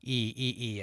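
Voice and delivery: long E with the tongue humped up; E vowel demo. Shown as a demonstration. Teacher demonstrating the E vowel with humped tongue. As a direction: hump the tongue for the E sound. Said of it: "by making that E vowel sound".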